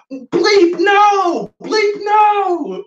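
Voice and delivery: very high, loud bleep-beep shout; censored cussing. Acted. Peter cussing to deny he knows Jesus, in high shouted bleeps. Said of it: "so he starts to cuss".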